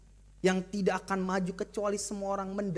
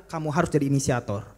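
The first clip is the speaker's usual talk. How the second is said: repeat after me; 7 semitones lower, 5 dB louder, faster than usual. Shown as a demonstration. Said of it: "pria di sebelah kiri atau kanan saudara bilang".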